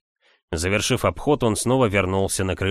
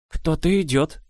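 put-on higher, anxious old nanny; old woman voice; 7 semitones higher than usual. A narrator's reading. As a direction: voice the old servant, worried. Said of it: "сказала она".

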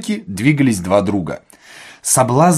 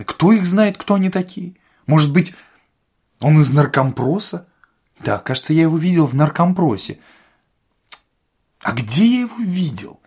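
higher-pitched, puzzled musing; puzzled administrator; 5 semitones higher than usual. A narrator's reading. Administrator wondering where he saw Ostap, puzzled. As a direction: think aloud, trying to place a face.

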